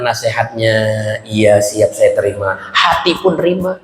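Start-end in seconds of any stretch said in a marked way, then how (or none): 1.2-2.6 low, slow obedient reply; mock compliance. Pupil outwardly accepting advice, low slow compliance. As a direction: accept meekly, drawing it out.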